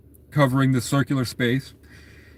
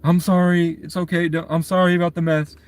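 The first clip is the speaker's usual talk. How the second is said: put-on higher, fretful old woman voice; old woman apologizing; 5 semitones higher than usual. Old woman sweeping behind the girl, higher fretful apology. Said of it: "old woman goes behind and is sweeping".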